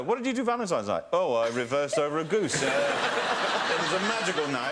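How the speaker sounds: imagined small talk, deadpan irony; picture telling friends about the date, wry; mock dinner-party answer. Joking about a ruined Valentine's night, wry and deadpan. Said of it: "I was thinking".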